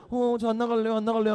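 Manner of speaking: mock timid protest; timid refusal. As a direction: refuse to come out like a bashful youth. Acting shy Saul hiding away.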